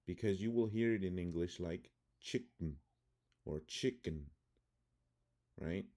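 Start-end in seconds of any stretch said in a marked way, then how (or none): 2.2-2.8 "chicken" as CHICK-n, E nearly gone; schwa swallowed. Shown as a demonstration. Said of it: "the letter E is the schwa sound". 3.7-4.3 "chicken" as CHICK-un with a weak last vowel; schwa reduced. Shown as a demonstration. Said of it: "the letter E is the schwa sound".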